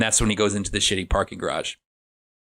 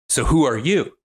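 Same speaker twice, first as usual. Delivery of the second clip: mildly upset, higher-pitched challenge; upset demand; 4 semitones higher than usual. Retold or imitated. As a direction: act out a pointed demand for an answer. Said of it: "He gets really upset".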